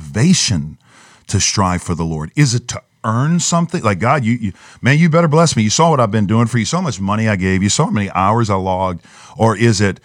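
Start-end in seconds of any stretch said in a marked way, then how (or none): 4.0-9.1 mock entitled demand. Striver telling God he has earned a blessing, mock entitled demand. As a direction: act out pestering God for payback.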